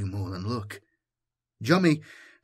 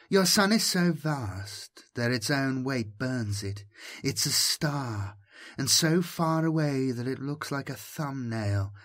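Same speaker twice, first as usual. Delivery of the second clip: caressing voice; 3 semitones higher than usual. Acted. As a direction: coax him gently, almost cooing. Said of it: "How the voice fondled him".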